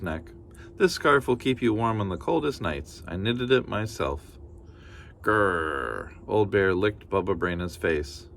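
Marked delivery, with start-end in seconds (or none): 0.8-4.4 a hint of a cheerful granny; kindly grandmother. Baba Brena thanking the bear, lightly voiced granny. 5.2-6.1 low bear growl. Acted.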